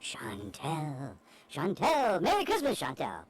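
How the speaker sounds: lightly voiced elf calling out; a hint of an excited elf; christmas elf. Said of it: "one more shout out for".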